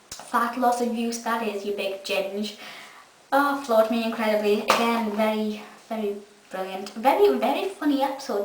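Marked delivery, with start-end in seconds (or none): 0.1-2.6 slow Doctor quote. Retold or imitated. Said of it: "the Doctor says to the Amy clone".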